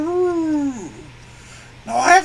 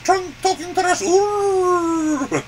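higher, louder puppet elephant voice; 4 semitones higher, 3 dB louder, much slower than usual. Acted. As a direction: say the title as the elephant. Title said in elephant voice.

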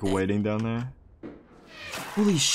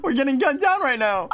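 higher, spoken through laughter; laughing; 11 semitones higher, 4 dB louder than usual. Real, not acted. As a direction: laugh while panicking. Laughing under fire.

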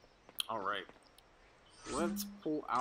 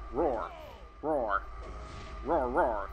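mock roar; much slower than usual. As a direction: roar like a big cat. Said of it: "I'ma roar at you".

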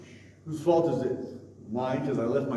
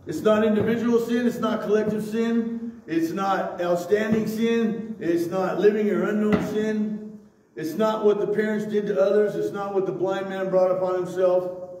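higher, louder pulpit delivery; emphatic preaching; 9 semitones higher, 7 dB louder than usual. Real, not acted. Pastor arguing about the blind man's guilt, emphatic preaching. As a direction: drive the argument home to the congregation.

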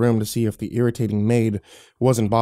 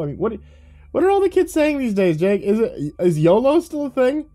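put-on much higher, loud smug teen voice; cocky teenage boy; 9 semitones higher, 3 dB louder than usual. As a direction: play the snide kid who thinks he's funny. Teenage boy talks to Jake.

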